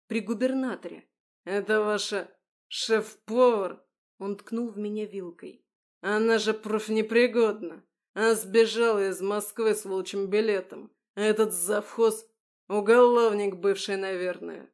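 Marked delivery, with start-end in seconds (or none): 1.4-3.8 loud, slow scornful question; contemptuous loud accusation. A narrator's reading. Official attacks the chef. 6.0-14.7 loud contemptuous accusations; loud slanderous rant. A narrator's reading. Official publicly slandering staff.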